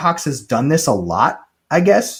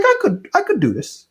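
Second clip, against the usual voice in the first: Caesar voice; 10 semitones higher than usual. Retold or imitated. Caesar voiced in retold scene.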